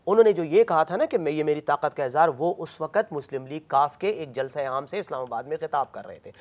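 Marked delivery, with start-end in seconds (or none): none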